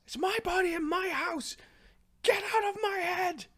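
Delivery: very high, frantic screech; outraged yelling. Acted. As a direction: screech to drive the intruder out. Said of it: "She's yelling".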